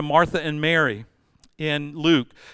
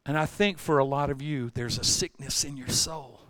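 quiet; 2 semitones lower, 6 dB quieter than usual. Real, not acted. Softer turn to congregation.

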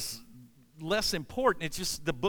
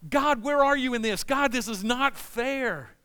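indignant outcry; 4 semitones higher, 4 dB louder than usual. Acted. Preacher voicing outraged believer to God.

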